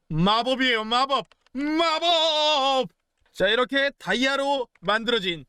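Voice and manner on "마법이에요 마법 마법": building higher to a long, drawn-out last word; showy magician's reveal. Pretend. Gamer to viewers about his magic, hammed-up rising reveal. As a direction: play up the magic, stretching the final cry.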